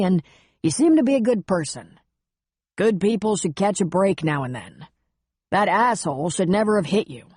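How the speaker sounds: hint of an awkward, supportive older friend; understated fatherly pep talk; lightly voiced older man. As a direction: give plain-spoken reassurance as an older buddy. Buck reassures Carlyle.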